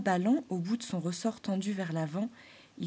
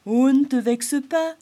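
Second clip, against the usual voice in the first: much higher, louder squirrel voice; squirrel consoling; 6 semitones higher, 11 dB louder than usual. Acted. Grey squirrel consoling the springtail, higher. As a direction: coax him kindly.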